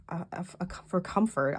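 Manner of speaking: stuttering start. Real, not acted. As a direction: stammer over the first word. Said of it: "I don't know why I'm stuttering".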